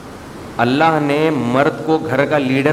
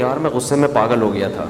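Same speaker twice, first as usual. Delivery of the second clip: lower, offhand imitation of an excuse; mock-casual excuse; 4 semitones lower, faster than usual. Husband excusing his divorce afterwards, mock-casual. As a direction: lightly mimic someone shrugging it off. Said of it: "آج بڑے آرام سے طلاقیں دے کے کہہ دیتے ہیں".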